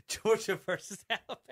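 high, put-on Georgia accent. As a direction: have a go at a mock Georgia accent. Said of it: "Both of you are just terrible".

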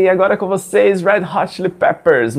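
a hint of radio-show announcer. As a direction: introduce the band like a radio presenter, stretching out the name. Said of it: "o cara tava falando na rádio".

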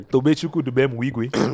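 Tobechukwu Dubemwigwe said with fuller weight on each part. Shown as a demonstration. Asked by friend to stress the name, emphatic. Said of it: "Put more emphasis in his name".

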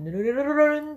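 rolled "ぬるるるるるるん" gliding smoothly upward; a sliding, rolled "ぬるるるるるるん" siren; rolling slide. Shown as a demonstration. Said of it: "っていう風に徐々に".

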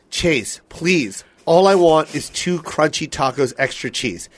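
low, slow, restrained plea; weary plea. Retold or imitated. Retelling his order to his friend, weary pleading. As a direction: spell it out softly and patiently. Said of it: "And I go".

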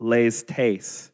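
"lestes" said carefully as LES-tes; Greek pronunciation. Shown as a demonstration. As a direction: spell out the Greek "lestes", syllable by syllable. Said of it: "It's pronounced".

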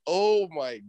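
can't believe what she said; shocked disbelief. Real, not acted. Reacting to low blow story.

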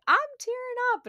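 high squeaky gushing, quick and loud; emotional friend. Retold or imitated. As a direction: mimic a friend squealing that she's teary. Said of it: "Michaela called me and was like".

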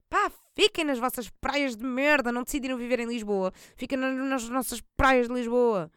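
irritated rant. Real, not acted. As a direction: vent at them, fed up. Ranting at beachgoers.

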